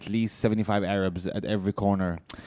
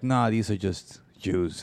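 mock racist neighbor; 4 semitones lower, 5 dB quieter, slower than usual. Racist neighbor voiced in a bit.

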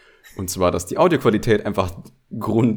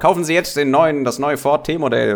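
1930s radio announcer; 5 semitones higher than usual. Retold or imitated. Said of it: "Radiomoderator aus den dreißigern".

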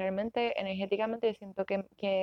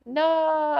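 put-on higher and louder, a stubborn child's NO; toddler's shouted no; 8 semitones higher, 6 dB louder than usual. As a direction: play the defiant toddler refusing. Toddler refusing mother's questions.

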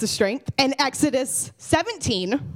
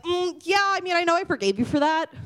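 higher-pitched, hedging mock doubt; reluctant God; 5 semitones higher than usual. God hesitates at the pearly gates, mock reluctant. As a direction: hem and haw as a doubtful judge.

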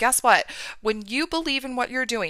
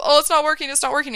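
raised, fretful mock panic; acted freak-out; 5 semitones higher, 4 dB louder, faster than usual. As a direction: play at freaking out. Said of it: "you're freaking out constantly".

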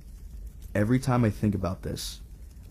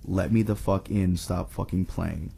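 a hint of a halting, unnatural voice, slowing and fading; lightly voiced inhuman thing, oddly paced; halting weird voice; 2 semitones lower than usual. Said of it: "in this halting, weirdly toned voice".

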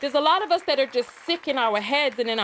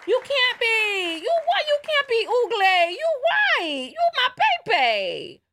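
high mock voice breaking into laughter; laughing mock boyfriend; 12 semitones higher, 5 dB louder than usual. Boyfriend gushing to girlfriend, laughing high and loud. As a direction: squeal the lines through laughter, teasing the boyfriend.

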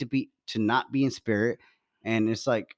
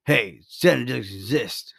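a hint of a stern parent; 2 semitones lower than usual. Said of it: "you'd be like".

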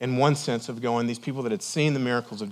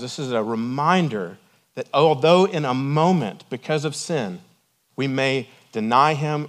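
raised, insistent preacher's delivery; impassioned preaching; 3 semitones higher, 5 dB louder than usual. Real, not acted. Preacher urging believers to walk with Jesus, impassioned. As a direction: press each phrase home to the congregation.

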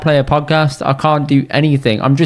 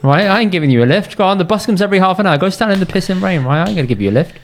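mock rant; 5 semitones higher, faster than usual.

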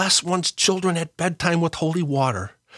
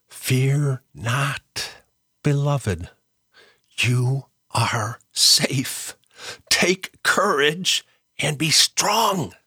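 tender reassurance; much slower than usual. Acted. Quoting angel's comfort, slowed.

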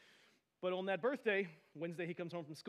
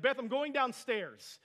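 slow, loud, raised announcement to wife; angry, fed up; 7 semitones higher, 9 dB louder, slower than usual. Retold or imitated. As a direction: act out storming off in exasperation. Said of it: "I was clearly angry".

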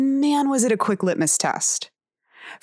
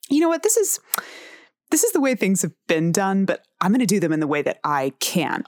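mock bold; 3 semitones higher than usual. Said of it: "we can't always be like".

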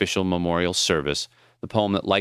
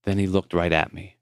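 plain reading voice

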